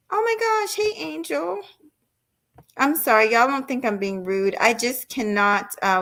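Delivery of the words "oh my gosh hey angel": excited greeting. Real, not acted. Greeting viewers in chat.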